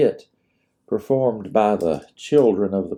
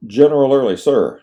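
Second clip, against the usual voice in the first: loud, crisp report to an officer; military address; 5 semitones higher, 7 dB louder than usual. A narrator's reading. Lieutenant addressing the general at attention, loud. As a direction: snap to attention and announce.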